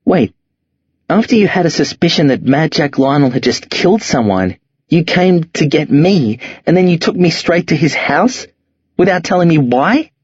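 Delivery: put-on a scared boy boiling over, voice breaking upward; frightened teen lashing out, voice cracking; voice cracking in anger. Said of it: "My voice cracks and breaks".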